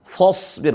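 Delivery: "fasbir" said as "fosbir"; wrong thick fa. Shown as a demonstration. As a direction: round the first vowel of "fasbir" towards o. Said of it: "Bukan fasbir".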